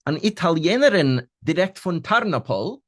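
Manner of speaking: mock her claim with a laugh; laughing question. Detective laughing at the girl's fake Italian claim. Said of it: "Fragt er lachendig".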